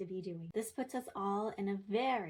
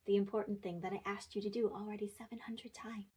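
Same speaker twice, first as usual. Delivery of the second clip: snarky yes. Shown as a demonstration. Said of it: "but not so snarky".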